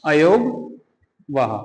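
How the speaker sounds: अयोगवाहा said very slowly, syllable by syllable; slow spelled-out term. Shown as a demonstration. Teacher gives students the new term, slow and syllabified. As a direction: break अयोगवाहा into अ-यो-ग-वा-हा, slow and clear. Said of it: "इन दोनों को बोला जाता है अयोगवाहा".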